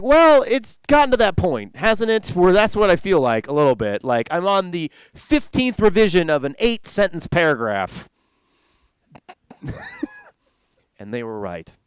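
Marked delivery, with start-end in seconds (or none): 0.0-8.1 sarcastic. Retold or imitated. Defending himself to colleagues.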